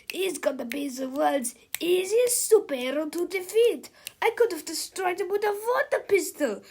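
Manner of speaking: mocking laugh through the words; laughing in disbelief. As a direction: laugh at how easy it is. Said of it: "laughed Big Tippy incredulously".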